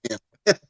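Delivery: "goddamn" with a hard T in the middle; GOT with a T. Shown as a demonstration. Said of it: "If you ever listen to a black person".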